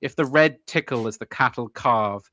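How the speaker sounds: measured verse, slowing through the lines; poem recital. Acted. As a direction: recite deliberately, pausing between lines.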